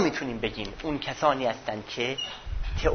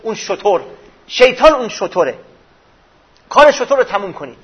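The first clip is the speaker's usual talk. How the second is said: herald's call; 6 semitones higher, 8 dB louder than usual. Retold or imitated. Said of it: "جارچی امیرالمومنین صدا زد".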